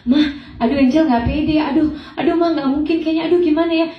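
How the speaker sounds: retold fretting. Retold panic before casting.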